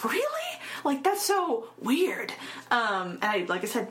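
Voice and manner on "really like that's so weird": retold disbelief. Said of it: "I was like".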